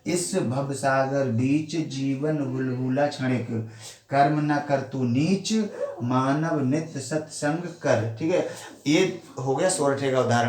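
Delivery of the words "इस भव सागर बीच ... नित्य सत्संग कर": slow, measured soratha reading; verse recital. Shown as a demonstration. Teacher recites the soratha example slowly for the class. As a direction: give each half-line its own breath. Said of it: "आप मेरी बात विशेष ध्यान से समझें".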